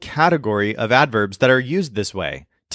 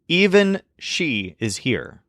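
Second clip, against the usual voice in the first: "Even" said slowly and given the strongest weight; stress on even; 3 semitones higher, slower than usual. Shown as a demonstration. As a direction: lean hard on "Even" at the start. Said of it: "The word even is placing strong emphasis".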